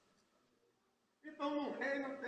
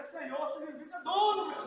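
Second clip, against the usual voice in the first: congregation repeat; 6 dB louder than usual. Shown as a demonstration. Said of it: "Bate no seu irmão do seu lado e diga".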